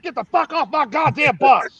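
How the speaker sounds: hammed-up sergeant shout; drill sergeant voice. Drill sergeant yelling the bus line while laughing.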